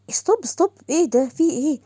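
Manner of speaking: sharp high cry of stop, stop; alarmed stop. Acted. Alarmed officer hushing a colleague who blurted her rank. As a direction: cut him off fast, alarmed.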